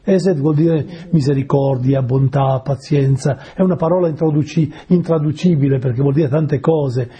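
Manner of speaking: normal talking voice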